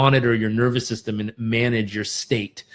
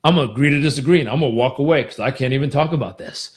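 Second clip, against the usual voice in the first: mock dismissive quote; faster than usual. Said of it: "I don't want to just say".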